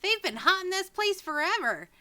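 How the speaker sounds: put-on high, eager little kid telling a spooky rumor; a wide-eyed child spilling the local ghost story. The child answers the stranger about goblins, high and excited. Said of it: "you actually accidentally went up to a child".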